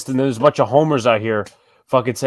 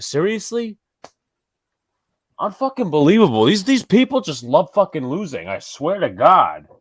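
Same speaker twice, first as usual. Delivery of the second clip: pitched-up rant, angry and disappointed at once; 5 semitones higher than usual. Ranting about a baseball team's offseason moves, mad and disappointed. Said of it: "I'm disappointed and I'm mad at the same time".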